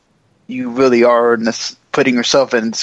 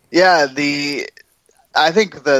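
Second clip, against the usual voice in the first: ordinary talk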